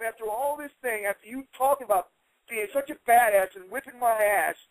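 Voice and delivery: usual speaking voice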